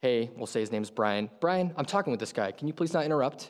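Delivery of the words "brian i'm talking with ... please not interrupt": mock short, unkind, curt, frustrated delivery. Acting out an interrupted conversation, telling brian to stop: acting out a frustrated, curt reply. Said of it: "It's either a frustrated".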